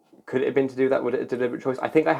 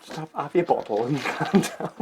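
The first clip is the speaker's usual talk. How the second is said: mock soothing; 6 semitones higher than usual. Babying the worked-up co-host.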